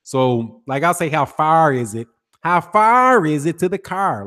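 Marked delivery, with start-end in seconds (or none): 1.1-4.2 "far" and "car" pushed through the nose in a North Side Chicago accent; nasal North Side Chicago accent. Shown as a demonstration. Streamer demos his North Side Chicago accent to chat, nasal. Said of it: "it's very nasal".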